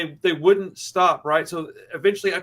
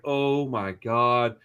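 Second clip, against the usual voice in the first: very slow, drawn-out dread; low-key retold fear, dragging the words; understated dread; 4 semitones lower, much slower than usual. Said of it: "most scared that I've been in".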